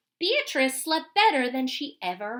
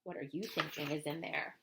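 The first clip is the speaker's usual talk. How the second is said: low, soft, separate voice; hushed aside; 10 semitones lower, 13 dB quieter than usual. Acted. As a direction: ask quietly off to the side. Aside in different voice.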